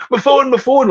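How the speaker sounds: high frantic wail; panicked cry. Retold or imitated. Imitating himself losing his phone backstage, frantic high cry. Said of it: "like, in a real panic".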